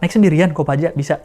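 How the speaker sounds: imitating a mildly startled mum, questioning; surprised mother. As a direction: lightly act out mum's startled questions. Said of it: "Kaget tuh nyokap gua".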